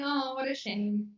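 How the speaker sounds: mildly sarcastic, said through a smile; lightly mock-sorry, not meaning it; sarcastic sympathy. Shown as a demonstration. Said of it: "it means you're being very sarcastic".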